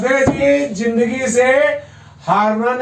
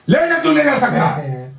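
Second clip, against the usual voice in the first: urging on; 4 semitones higher than usual. Real, not acted. Therapist urges arm movement.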